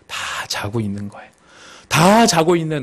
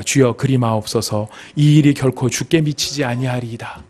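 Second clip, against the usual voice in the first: mild, kindly plea; 2 semitones lower than usual. Acted. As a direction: gently say it as if looking out for him. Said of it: "이 내용만 들으면 굉장히 분위기 좋잖아요". (온화하고 위해 주는 말투)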